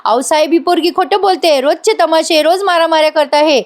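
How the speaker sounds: mock shouting. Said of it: "मोठ्याने ओरडते". (आत्याचा उंच आवाजातला नाटकी आरडाओरडा, आवाज फारसा मोठा नाही)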